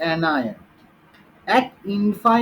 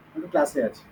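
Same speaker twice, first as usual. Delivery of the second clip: hushed so the class won't hear; whispering on the phone; 6 semitones lower, 8 dB quieter, much faster than usual. Real, not acted. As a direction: drop to a low hush into the phone. Teacher answers phone during class.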